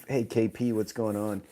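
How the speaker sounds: normal talking voice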